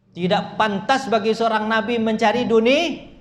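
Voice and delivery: high, loud, slow scriptural reprimand; stern rebuke. Acted. Preacher voices God reproving the Prophet, stern rebuke. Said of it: "bahasa ditegur begitu".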